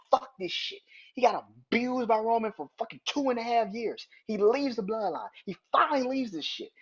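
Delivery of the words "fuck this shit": mock exasperated quote. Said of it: "He's like".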